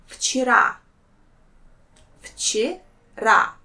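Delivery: вчера as fchi-RA, voiceless f at the start. Shown as a demonstration. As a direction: model вчера twice with an f sound. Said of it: "V will pronounce as its voiceless counterpart sound F".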